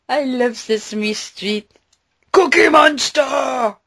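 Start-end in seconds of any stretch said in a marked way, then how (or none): 2.3-3.8 slow, loud call of the name; excited shout. Real, not acted. Fan shouting for the Sesame Street monster, loud. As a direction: belt it like a cheering fan.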